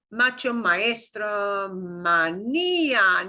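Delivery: slow macho, maestro, manía with each stress syllable punched; slow stress demo. Shown as a demonstration. Teacher drilling word list slowly for class, stressed syllables punched. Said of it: "Notice here".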